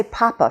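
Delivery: "papa" with a puff of air on each P; puffed English P. Shown as a demonstration. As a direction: demonstrate the aspirated P in "papa". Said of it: "there's a big puff of air".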